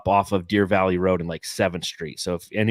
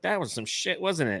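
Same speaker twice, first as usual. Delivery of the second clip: imitated general; 8 semitones higher, 6 dB quieter than usual. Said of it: "the general comes through".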